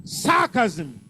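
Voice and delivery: Sarcasm with the beat on "Sar"; stress on first syllable. Shown as a demonstration. Teacher drilling stress patterns, Sarcasm stressed on "Sar". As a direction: lean on the opening syllable of Sarcasm. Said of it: "First syllable".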